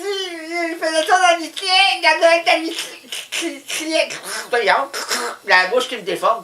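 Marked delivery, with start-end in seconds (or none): 0.0-3.0 high, tearful whine; hammed-up wail about the cat; mock sobbing. Comic storyteller fake-crying over his old cat.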